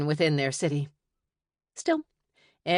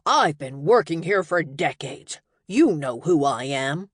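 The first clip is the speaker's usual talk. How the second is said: indignant; 5 dB louder than usual. Acted. Wizard protests at security.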